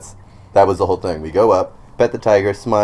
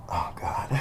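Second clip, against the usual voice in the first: much softer, under the breath; hushed mock dread; 10 dB quieter than usual. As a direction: retell a small, frozen moment of dread. Retold dread as tiger stares.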